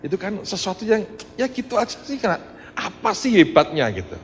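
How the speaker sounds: high, offhand, no big deal; casual shrug of modesty; dismissive shrug. Real, not acted. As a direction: brush it off lightly. Dismissing it as small.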